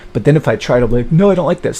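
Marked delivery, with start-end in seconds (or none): 1.1-1.8 high, louder protest; acted refusal. Him trying to refuse the woman, high protest. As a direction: object firmly in a raised pitch.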